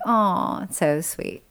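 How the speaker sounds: touched aww. Retold or imitated. Reacting to a sweet lyric, tender and soft. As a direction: melt a little. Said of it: "I'm like".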